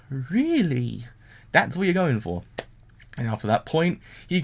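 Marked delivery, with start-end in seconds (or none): 0.1-1.1 dropped, weary disbelief; deadpan really. Real, not acted. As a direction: sigh it out like you've given up on the show.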